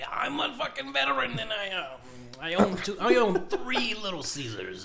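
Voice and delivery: put-on high, loud, boastful sixty-year-old veteran voice.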